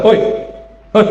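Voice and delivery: calling out. Shown as a demonstration. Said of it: "Coba saya bilang".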